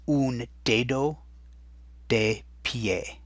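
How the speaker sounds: slow and drawn out, lifting on un; slow teaching model. Shown as a demonstration. Teacher modelling un dedo slowly for the class. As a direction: model the phrase slowly so students copy it. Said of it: "And that in Spanish is".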